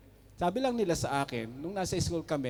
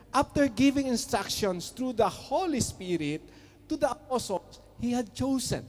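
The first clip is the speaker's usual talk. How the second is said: scripture reading; 4 semitones higher than usual. Shown as a demonstration. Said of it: "let's read".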